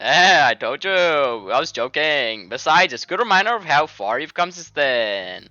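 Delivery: loud, lilting fake Indian accent; badly faked Indian accent. Friend excusing the jokes, in a hammed-up Indian accent. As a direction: tease in a broad put-on Indian accent. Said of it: "fucking Indian man's voice instead".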